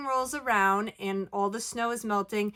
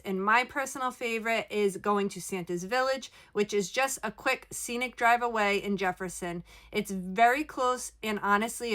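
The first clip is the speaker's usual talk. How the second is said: small room echo inside a trailer; speaking inside a small RV; recorded in an RV. Real, not acted. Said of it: "I am recording from my R V".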